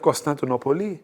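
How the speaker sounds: Constantinople said the Greek way, Constantinopoli, rising; Greek pronunciation. Retold or imitated. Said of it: "She's like".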